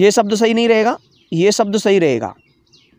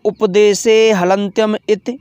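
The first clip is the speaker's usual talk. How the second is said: slow recitation; slower than usual. Shown as a demonstration. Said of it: "देखो".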